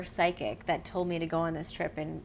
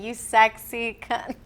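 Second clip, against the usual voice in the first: louder, slow mock-Scottish quote; Scottish accent; 4 semitones higher, 6 dB louder, slower than usual. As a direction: imitate a Scottish man's cheeky catchphrase. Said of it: "because of this Scottish accent".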